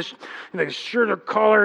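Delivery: ordinary talk, nothing marked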